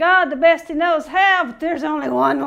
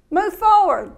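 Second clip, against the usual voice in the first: stern command; 5 semitones higher, 6 dB louder than usual. Retold or imitated. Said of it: "He told Moses".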